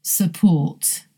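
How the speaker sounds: "Support" as suh-PORT, weak first vowel; schwa first syllable. Shown as a demonstration. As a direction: reduce the start of "Support", stress the end. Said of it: "Here's one more".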